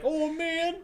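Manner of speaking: a hint of Shaggy. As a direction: squeak it like Shaggy. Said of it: "that voice of Shaggy".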